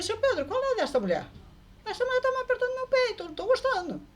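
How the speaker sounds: alarmed protest. Retold or imitated. Protesting woman squeezing her chest.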